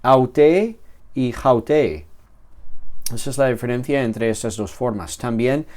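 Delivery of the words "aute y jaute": "aute" smooth, "jaute" with a breathy h; slow breathing contrast. Shown as a demonstration. Teacher contrasting smooth and rough breathing, slowly. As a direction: slowly set "aute" against "jaute", the h audible. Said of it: "en el espíritu".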